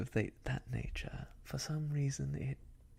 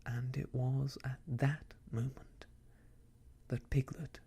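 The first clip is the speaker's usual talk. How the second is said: measured, deliberate storybook reading; story narration; 2 semitones higher, 4 dB louder than usual. A narrator's reading. Reads a story aloud.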